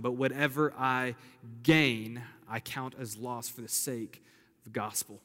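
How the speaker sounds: preacher reads scripture to the church; scripture reading. Acted. Reads Philippians aloud.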